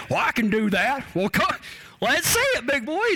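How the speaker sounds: lightly voiced cowboy dare, rising in pitch. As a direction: goad him like an easygoing cowboy. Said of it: "that's what a cowboy would say".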